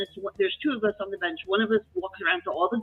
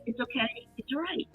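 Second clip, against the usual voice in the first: soft, soothing brush-off; hushed "don't worry about it"; retold reassurance; 9 dB quieter than usual. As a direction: play it down gently, much softer. Retells reassuring an apologetic colleague.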